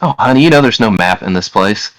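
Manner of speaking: lightly voiced amused woman. Woman amused by the request for a map, lightly voiced. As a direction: gently dismiss it as the woman. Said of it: "she laughs and says".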